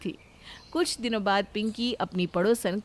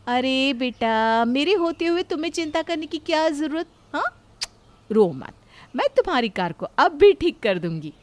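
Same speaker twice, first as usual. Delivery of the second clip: put-on reassuring a child; 3 semitones higher, 4 dB louder than usual. Pinki comforting Kavya's crying son, cheerful and coaxing. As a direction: promise the kid you'll fix it.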